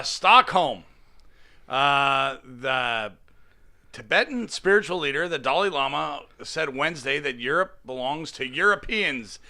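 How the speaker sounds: reading a news story aloud. Real, not acted. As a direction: read it out like a teleprompter script. Reads a news article aloud.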